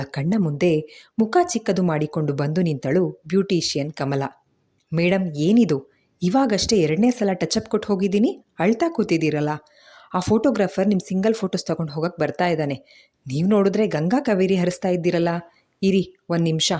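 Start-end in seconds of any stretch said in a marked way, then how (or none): 4.9-16.7 quick, breezy beautician patter; rattling chatter. Acted. Beautician fussing over the bride's smudged makeup, rattling fast. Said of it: "ಪಟಪಟನೆ ಹೇಳಿ ಮುಗ್ಸಿ".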